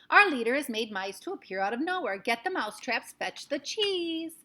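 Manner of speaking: loud, rising excited cries; excited witch crowd. A narrator's reading. Witches calling for mousetraps, loud and high. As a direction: urge the others to act.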